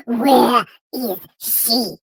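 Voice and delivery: low, slow, mock-worried man; imitating the boyfriend. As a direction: drag it out like an anxious boyfriend. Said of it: "Is that how he talk".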